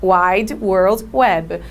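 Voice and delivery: "Wide World Web." drawn out word by word; slow model English. Shown as a demonstration. Teacher giving a class example, very slow. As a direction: dictate it slowly for the class. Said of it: "Seria essa a ideia".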